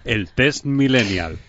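slow, booming announcer intro; radio voice. Shown as a demonstration. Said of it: "lo voy a hacer con voz de radio".

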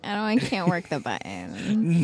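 pretend drunk caller. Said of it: "I'm drunk now and I can't do it".

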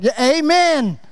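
half-hearted, draggy amen; mock glum crowd reply; mock bummed amen. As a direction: sound grudging and deflated. Imitating bummed congregation.

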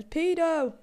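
high mock yell, drawn out; imitated kid's yell. Ginger kid outside the school at a passer-by, mock yell. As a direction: call it out like a taunting kid. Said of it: "this little ginger kid yells".

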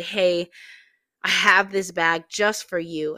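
loud call across the road. Retold or imitated. Volunteer calling across the road to a homeless lady, loud. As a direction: call out to catch her attention.

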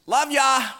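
light, quick toss-off; offhand routine affection; casual endearment. Acted. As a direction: throw it out as a habit, slightly high. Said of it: "you go to this different place".

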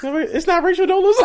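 loud laughing protest; laughing shout. Real, not acted. Laughing outburst at the mix-up.

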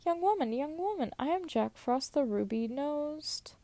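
a hint of a high, quick sprite; lightly voiced Jack Frost. Jack Frost calling to the girl, a lightly voiced sprite. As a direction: chant it quickly like a prancing frost spirit. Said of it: "he said".

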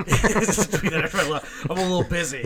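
laughing through the words; giggling while speaking. Real, not acted. Laughing while repeating the joke.

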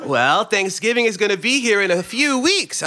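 talking through a chuckle; amused, laughing at the question; chuckling. Acted. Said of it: "I'm chuckling at the absurdity".

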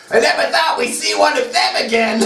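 laughing melodrama. Acted. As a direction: struggle to stay in character while laughing. Reader resumes acting through laughter.

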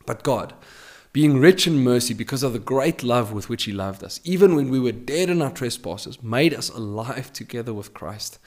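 measured reading of a Bible passage; solemn scripture read. Acted. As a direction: read the verses out with weight. Preacher reads scripture aloud.

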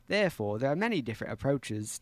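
Australian accent slipping into British; British-tinged Australian accent. Shown as a demonstration. Player workshops the accent, Australian slipping British. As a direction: attempt Australian but drift British. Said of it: "No, I hadn't Britain, British there".

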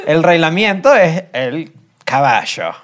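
"caballo" as "cabasho"; rehilamiento demo. Shown as a demonstration. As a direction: rioplatense sh in "caballo". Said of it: "Es el reilamiento".

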